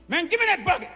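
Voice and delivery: high, loud demand; snatch at the bucket; a high, loud shout for the bucket; angry demand. Retold or imitated. Inmates quarrel over mop bucket.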